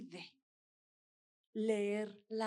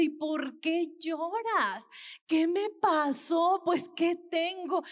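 patient's puzzled question, pitched higher and louder; lightly voiced patient, higher and louder, confused; a hint of a bewildered patient, raised pitch; voicing the patient; 5 semitones higher, 4 dB louder than usual. Patient asks why he cries.

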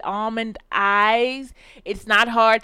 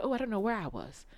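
self-mocking quote; 12 dB quieter, faster than usual. Imitating herself in an accent.

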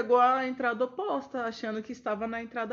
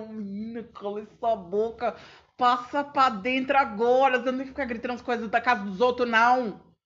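scolding mother; 3 semitones higher, 6 dB louder than usual. Retold or imitated. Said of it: "Minha mãe assim".

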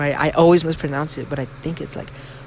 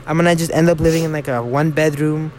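slipping into a Mexican accent. Real, not acted. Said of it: "Why did I say it like that".

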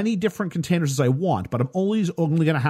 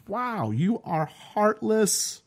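mock disgust; 6 semitones higher, much slower than usual. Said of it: "I'm just like".

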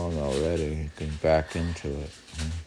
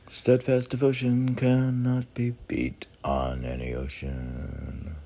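proclaiming a saying. Pretend. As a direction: pronounce the aphorism grandly. Reading out a meditation saying.

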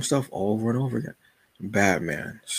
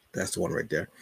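fond parent voice; 6 dB quieter than usual. Retold or imitated. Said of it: "that one that you go".

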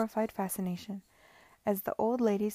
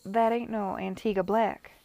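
light Caribbean patois, louder; broad patois; 7 dB louder than usual. Acted. Miss Lamb mocking Lady Denham in a light Caribbean patois. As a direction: drop into a broad West Indian patois. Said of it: "not in her usual voice, but a broad patois".

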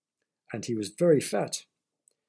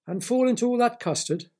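high, louder disbelieving question; incredulous; 9 semitones higher, 5 dB louder than usual. A narrator's reading. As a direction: balk at the idea, voice leaping up. Boy doubts the man's dare.

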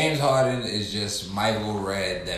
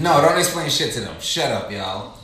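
mock angry; 3 semitones higher, 5 dB louder than usual.

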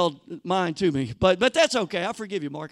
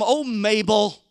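gushing tourist; 2 semitones higher than usual. Retold or imitated. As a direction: play a wide-eyed sightseer begging for a photo. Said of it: "You can just hear 'em".

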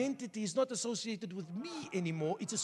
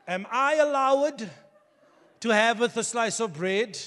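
a begging son; 9 dB louder, slower than usual. Retold or imitated. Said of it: "if my son must come to me".

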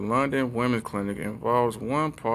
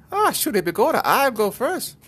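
high, loud put-on character voice; loud falsetto-like mock eagerness; mock squabbling woman; 13 semitones higher, 5 dB louder than usual. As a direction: stretch it out high and loud, hammed-up. Acted argument in invented story.

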